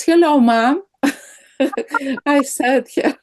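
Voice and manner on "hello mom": put-on high, louder baby greeting; voicing the baby saying hello; with emphasis. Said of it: "with an emphasis".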